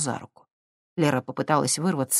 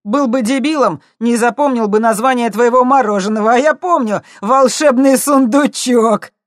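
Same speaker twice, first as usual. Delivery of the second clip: mocking tease; 8 semitones higher, 10 dB louder than usual. A narrator's reading. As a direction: savour the joke at her expense. Blond mocks girl. (насмешливо, громко, протяжно)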